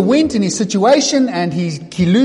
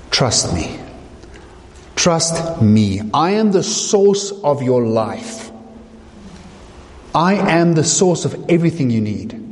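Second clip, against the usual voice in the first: voice of Jesus. Acted. Preacher voices Jesus' message.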